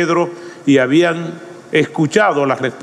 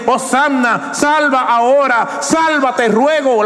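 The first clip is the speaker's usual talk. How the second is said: a raised, pleading prayer; earnest plea; 7 semitones higher than usual. Shown as a demonstration. Preacher voicing the crowd's hosanna, earnest plea. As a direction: plead it, not yet crying out. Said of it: "es un grito de desesperación".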